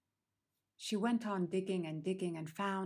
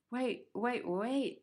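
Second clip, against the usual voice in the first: higher, urgent repeated wait; 5 semitones higher, slower than usual. Acted. Teller stopping the bird in surprise, urgent. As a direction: stop her mid-story.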